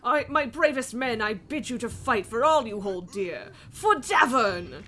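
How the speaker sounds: lightly voiced rallying king; king's battle speech. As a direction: rouse the soldiers before battle. Rallies troops as game king.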